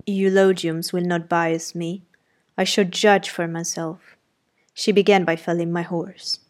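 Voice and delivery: clipped-free, blunt gentleman talk, only lightly done; the master brushing off praise, mildly gruff; lightly voiced gruff master. Rochester judging Jane.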